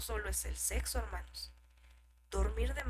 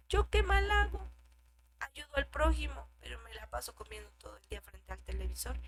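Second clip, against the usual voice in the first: mock excuse; 3 semitones higher than usual. Preacher mimicking a churchgoer defending his overeating. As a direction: sound offended, as if innocent. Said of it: "Estás proveyendo para tu carne".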